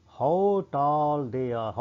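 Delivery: drawn-out, acted wonder; amazed. Shown as a demonstration. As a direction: marvel slowly, stretching the words. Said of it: "ਇਹ ਗੱਲ ਹੈਰਾਨੀ ਨਾਲ ਕਹਿ ਰਿਹਾ ਹੈ".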